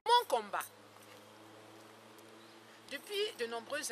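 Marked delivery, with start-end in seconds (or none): 0.0-0.7 loud, punchy title announcement; emphatic announcement. Acted. Dramatic title after long pause.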